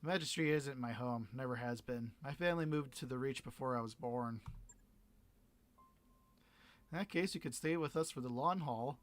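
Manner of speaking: easy, lightly voiced pirate captain making an offer; a hint of a sly pirate captain; pirate captain character. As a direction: talk him through the deal like a pirate boss.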